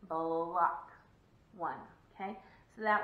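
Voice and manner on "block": BLOCK low and drawn out, b-lock; low, deliberate single-syllable Block. Shown as a demonstration. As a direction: stretch Block as one slow beat. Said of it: "With the chin".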